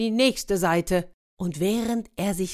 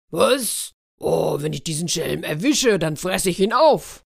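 angry wolf. Acted. Wolf vows to eat the thief, mock angry. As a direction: threaten to eat him up. Wolf furious about the theft.

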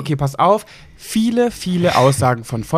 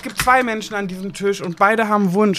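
indignant retort; 9 semitones higher than usual. Real, not acted. Heated bickering about closing window.

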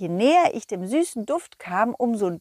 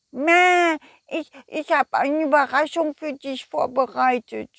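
higher bleating sheep chatter; silly sheep voice; 4 semitones higher than usual. Acted. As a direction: play a forgetful, cheerful sheep. Shaki the sheep speaks.

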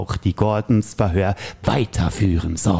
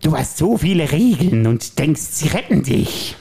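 Joker voice; slower than usual. Acted. Plays the Joker in the scene.

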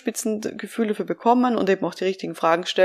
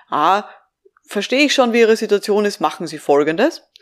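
acted overconfident adviser cutting straight to instructions; know-it-all advice; 2 semitones higher, 4 dB louder than usual. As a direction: hand down advice as if you already understand everything. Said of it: "sondern immer sehr, sehr zurückhaltend".

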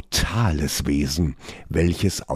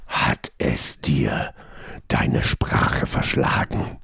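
mocking god voice; 4 semitones lower than usual. A narrator's reading.

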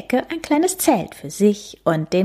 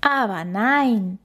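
grinning; 4 semitones higher, slower than usual. Acted. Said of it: "sagt Oma grinsend".

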